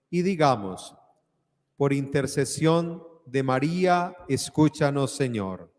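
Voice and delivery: cathedral echo. Acted. Invites prayer response.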